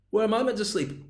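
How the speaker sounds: high-pitched complaining guest; voice going up. Acted. Guest asking host about stuff, voice going up. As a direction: push the question up high, mock put-out. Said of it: "When your voice stops going up".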